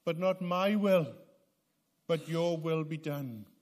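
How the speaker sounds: voicing Jesus' prayer. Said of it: "and he is saying".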